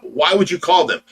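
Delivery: first "Why would you call them?" said as a mild mock complaint; the nurse starts her fit, asking "Why would you call them?" with a little heat; retold fit, first time. Quoting the nurse's angry question, understated. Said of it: "she just threw a fit about".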